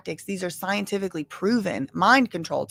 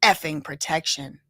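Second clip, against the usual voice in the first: lower, threatening man voice; menacing rapper; 5 semitones lower than usual. Retold or imitated. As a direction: growl the warning, pitched low. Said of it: "He gave me these dirty looks".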